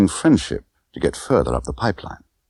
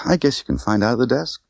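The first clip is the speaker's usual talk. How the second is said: Tiffany voice; 6 semitones higher than usual. Acted.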